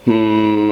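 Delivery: slow the hum down till it pops; drawn-out creaky hum. Shown as a demonstration. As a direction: Grudge croak slowed down. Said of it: "and then you slow it down".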